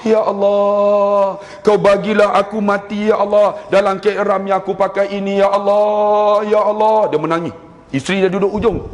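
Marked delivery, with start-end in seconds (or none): 0.1-7.1 lightly voiced elderly pilgrim, pleading; old man's prayer. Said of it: "Tapi dia doa".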